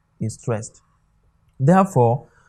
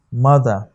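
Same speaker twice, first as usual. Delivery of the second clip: mother with the weight on MO; MO-ther, second syllable of mother light; stress on first syllable; 4 dB louder than usual. Shown as a demonstration. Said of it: "the one that received the stress is what?".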